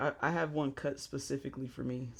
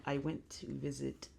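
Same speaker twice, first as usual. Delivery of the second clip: customer service voice; 3 semitones lower than usual. Acted. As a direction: talk like a cheerful call center agent. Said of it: "Like my customer service voice?".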